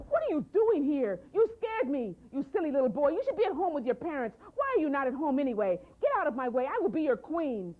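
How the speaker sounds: put-on greedy sister snapping at a lost boy; haughty scolding. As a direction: brush him aside with contempt. Greedy girl scolds little boy.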